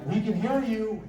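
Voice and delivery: retold call skyward, pitched high; mock yell. Terry calling up to the hidden voices, high mock yell. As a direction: call up to the sky, mock defiant. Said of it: "He yelled up into the sky".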